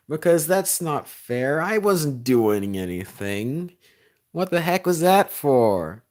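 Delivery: loud, high mock-indignant protest, drawn out; hammed-up outrage, stretched and rising in volume; mad kids. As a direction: imitate kids whining that they got kicked out. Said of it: "And then they get mad".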